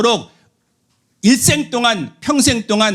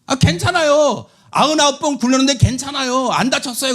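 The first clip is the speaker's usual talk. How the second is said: 고집부리는 아이; 5 semitones higher than usual. Retold or imitated. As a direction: whine that nothing will happen. (괜찮다고 우기는 아이 말투)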